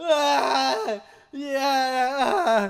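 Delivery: high, drawn-out crying wail on a stretched "ah". Imitating someone on camera wailing for no reason: imitating Jason wailing. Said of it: "wailing for no reason".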